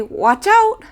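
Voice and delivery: sudden high call of alarm; a quick sharp warning. Shown as a demonstration. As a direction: call out to stop a collision. Warning someone about to collide.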